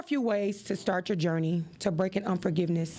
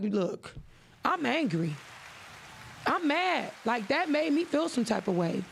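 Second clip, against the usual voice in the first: open admission; 4 semitones higher than usual. Retold or imitated. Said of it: "No, I be like".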